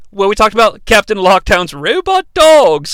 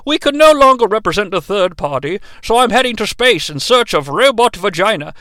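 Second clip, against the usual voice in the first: lightly voiced starship captain; Captain Jean-Luc Picard; 2 semitones lower than usual. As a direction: dictate a captain's log, measured and formal. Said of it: "Lockdown sounds like Captain Jean-Luc Picard".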